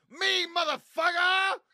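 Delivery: very high, loud, slow screech; mock yell. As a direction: screech it out as a mock owl cry. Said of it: "and then it's like".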